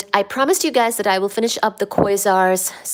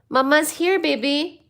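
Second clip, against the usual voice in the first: high cooing to the cat; higher voice for the cat; pet talk; 5 semitones higher than usual. Real, not acted. Talking to the cat.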